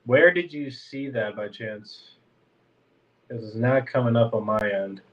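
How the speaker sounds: blocked nose; talking through a stuffy nose; congested. Real, not acted. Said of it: "Sorry if I sound congested".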